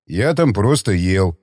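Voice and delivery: slow, calm, low objection; unruffled. A narrator's reading. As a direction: shrug it off slowly and evenly. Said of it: "невозмутимо возразил Иван".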